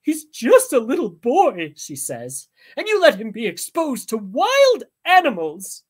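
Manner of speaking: high, loud tearful wail; mother crying over her son. A narrator's reading. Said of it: "Simon's mother starts to cry".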